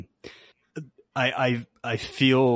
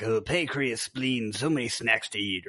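lightly mimicked goofy monster; a hint of a silly creature listing treats; goofy Venom. Host mocking the trailer's monster line, lightly goofy. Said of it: "I think Venom sounds goofy".

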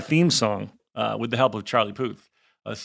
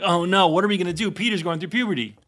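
higher-pitched mock alarm; imitated worried family; 5 semitones higher than usual. Host voicing the Bradys worried about Peter, higher mock alarm. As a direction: lightly act out the fretting siblings. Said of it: "they were like".

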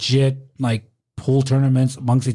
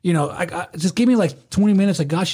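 higher-pitched exasperated reasoning; retold placating; 5 semitones higher than usual. Doorman telling an arguing guy to wait, placating and high. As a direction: talk down a pushy guest, pitch raised. Doorman retelling his pleas to calm.

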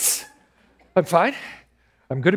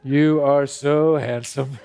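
swooning; 4 semitones lower, slower than usual. Acted. Starstruck Ron swooning.

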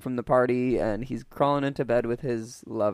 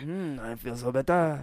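mock French accent, relieved; 4 dB quieter than usual. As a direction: sigh it in a put-on French accent. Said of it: "do a French accent now".

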